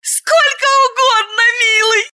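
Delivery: high, teasing voice of a merry blonde; flirty blonde. Acted. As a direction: call him up to her, playfully. Blonde answers eagerly.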